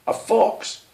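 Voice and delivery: high breathy alarmed shriek; screeching pheasant. Acted. Pheasant panics at the word fox, breathy shriek. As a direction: shriek it in sudden fear.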